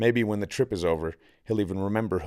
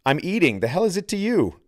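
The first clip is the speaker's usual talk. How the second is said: irritated snap; 9 semitones higher than usual. A narrator's reading. Santi snaps at Rico.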